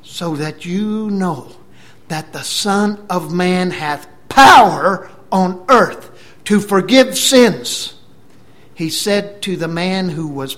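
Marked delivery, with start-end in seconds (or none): 0.0-7.9 slow, emphatic build to a loud peak; slow proclamation rising in pitch and volume; forceful declaration. Retold or imitated. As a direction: declare authority, weighting each phrase. Acts Jesus answering his accusers.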